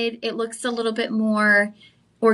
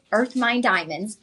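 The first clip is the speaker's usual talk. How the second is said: EARTH MINE DIAMONDS said slowly, deliberately; stressed clarification; 4 dB quieter than usual. Real, not acted. Host making sure buyers know which diamonds, slow emphasis on "earth mine diamonds". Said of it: "Why are you emphasizing that so much".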